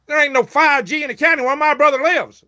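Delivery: loud, high retold rebuttal; indignant retold comeback; angry retort. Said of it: "I said".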